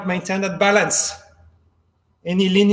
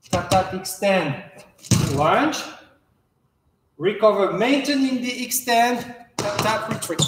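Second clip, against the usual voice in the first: crisp fencing commands. Shown as a demonstration. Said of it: "Demonstration one more time".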